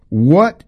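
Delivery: "what" set apart and lifted high; stress on what. Real, not acted. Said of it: "these are in capital letters".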